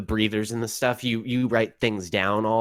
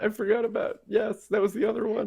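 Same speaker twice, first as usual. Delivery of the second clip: put-on valley girl voice; 11 semitones higher, faster than usual. GM voices Cadence, the art student.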